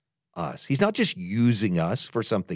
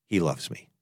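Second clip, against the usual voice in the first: quiet affirmation; 8 semitones lower, 8 dB quieter than usual. Shown as a demonstration. Models the listener's private response.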